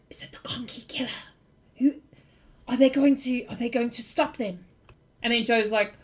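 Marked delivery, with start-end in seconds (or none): 0.1-4.6 hushed unvoiced whisper; whispering crowd. Frightened townsfolk whispering about the killer. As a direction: breathe it like nervous gossip. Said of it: "you hear whispers of".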